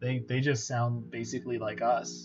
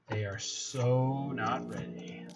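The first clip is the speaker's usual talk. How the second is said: whisper; much slower than usual. Real, not acted. Gloating about opponent's misread.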